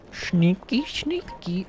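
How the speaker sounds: sneaky whisper; hushed playful whisper to herself. Real, not acted. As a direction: whisper it while creeping past. Sneaking past guards.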